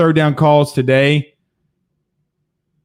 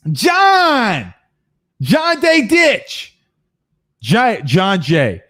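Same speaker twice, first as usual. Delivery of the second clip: hailing John across the room; calling out; much slower than usual. Real, not acted. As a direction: stretch the name out to hail him. Calling out to a friend.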